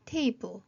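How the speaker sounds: Table stressed on TA; stress on first syllable. Shown as a demonstration. Teacher demonstrating word stress, Table with TA stressed. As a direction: hit the front of Table, let the end fall. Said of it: "앞에 강세 있습니다".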